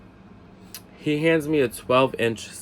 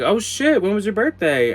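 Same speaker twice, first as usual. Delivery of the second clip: high, louder caught-out reaction; retold startled realization; 9 semitones higher, 5 dB louder than usual. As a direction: act out a sudden "oops, I forgot". Retells his shocked apology.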